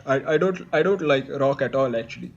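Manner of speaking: low, hesitant puppet guest; shadow musician guest. Acted. Plays the rock star's shadow guest.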